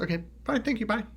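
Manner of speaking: high, light polite sign-off; switched-off rage. Retold or imitated. Showing how they drop the rage act, breezy goodbye. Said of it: "like, you turned off the water faucet".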